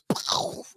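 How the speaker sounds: voiceless explosion noise; imitated heart bursting. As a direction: blow out a breathy burst. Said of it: "and my heart goes".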